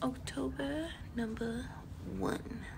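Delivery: hushed unvoiced aside; whisper. Real, not acted. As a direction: whisper so not to wake anyone. Whispered vlog intro.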